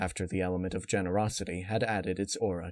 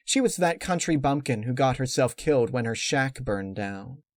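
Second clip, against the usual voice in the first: lightly voiced gossiping Canterlot snob; mild sneering impression of society gossip; mock gossip; 5 semitones higher, 3 dB louder than usual. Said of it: "They'll be saying".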